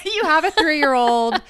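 laughing through the words. Real, not acted. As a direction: laugh as you say it. Laughing while telling.

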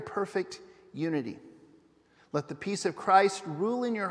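measured reading with pauses between phrases; scripture reading. Acted. Pastor reads scripture to the congregation, measured scripture reading. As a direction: read it reverently, letting each phrase settle.

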